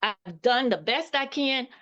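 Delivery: retelling a desperate prayer; earnest prayer. Retold or imitated. Praying on her knees to God.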